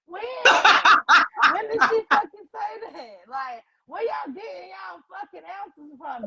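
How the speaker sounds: loud, exasperated with a laugh. Real, not acted. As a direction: demand answers, fed up and loud. Exasperated rant.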